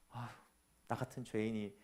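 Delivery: mock sigh, quiet and self-pitying. Believer sighing softly before Satan, mock self-pity. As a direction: sigh like a defeated sinner. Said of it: "왜 사탄한테 자꾸".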